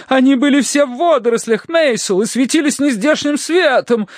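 high, agitated lady's voice; excited wife. A narrator's reading. Wife describes spirits to husband, excited. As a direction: insist with breathless-eager excitement. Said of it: "возбуждённо трясла руку супруга".

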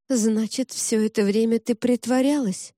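ordinary delivery

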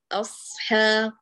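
أصحاب said slowly with the ح flowing on; sustained ح. Shown as a demonstration. Teacher slowly demonstrating أصحاب for the student. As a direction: let the ح in أصحاب run without a break. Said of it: "لا تقطعي الصوت".

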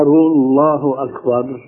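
الله أكبر said slowly with the last vowel of أكبر swallowed; slow الله أكبر with a vague ending; unclear final vowel. Shown as a demonstration. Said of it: "ما هي مبينة". (الله أكبر بحركة غير مبينة)

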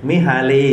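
มิฮาลี said as mee-haa-lee; name read out. Shown as a demonstration. Lecturer shows the class how the name on screen is pronounced, มิฮาลี sounded out. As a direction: sound out มิฮาลี in Thai syllables. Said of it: "ออกเสียงได้ว่า".

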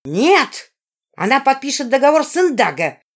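put-on a girl screaming in rage; bellowing. A narrator's reading. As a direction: scream her refusal at the princess. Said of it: "заорала Жизара".

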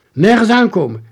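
put-on high, loud boy's command; called out. A narrator's reading. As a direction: shout a sharp warning. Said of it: "riep Jaapie".

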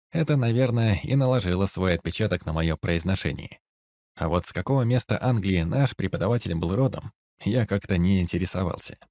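ordinary delivery

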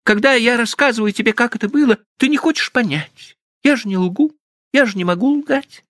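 put-on high girlish protest, quick at times; wounded young woman. Stephanie protesting her honesty to Frank, high and hurt. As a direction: insist on your honesty in a high voice.

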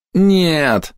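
high desperate cry to the sky; anguished shout. A narrator's reading. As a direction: scream it out in despair. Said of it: "закричал учёный". (отчаянный крик)

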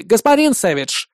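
gloating, smug; gloating chuckle. Acted. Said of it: "злорадно усмехнулся Тотти".

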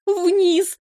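high, loud order to go down; a loud, high single-word command. Acted. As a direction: shout it as loud as she can manage. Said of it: "дрожащим голосом ... как можно громче".

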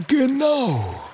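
put-on high, thin old teacher's voice; old dragon teacher agreeing; wise teacher. Wise teacher Cornelius Cactus.

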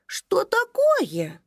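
whispered, slow, bewildered question; puzzled whisper. Acted. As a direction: ask it baffled and hushed. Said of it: "растерянно спросил он".

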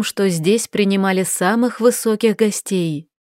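ordinary delivery

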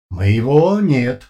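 slow, loud flat machine voice; no pauses, no feeling; emotionless metallic voice. A narrator's reading. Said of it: "тут же раздался ответ".

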